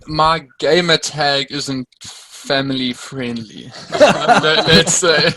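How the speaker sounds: slow, sheepish words through a laugh; half-laughing confession. Real, not acted. Guest admits his rude gamer tag, laughing.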